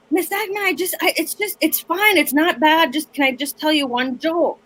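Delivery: put-on high, wheedling kid voice; lightly voiced begging student; pleading student. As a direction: beg like a pushy teen. Voicing student begging for joke.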